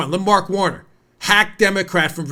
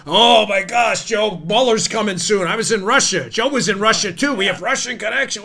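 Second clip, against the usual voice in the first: slightly raised, hammed-up panic; mock alarm; 3 semitones higher than usual. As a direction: ridicule an alarmist with pretend shock. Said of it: "so stupid".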